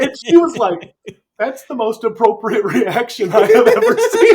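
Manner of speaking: loud, laughing through the quote; cracking up mid-sentence. Real, not acted. Laughing while quoting his wife.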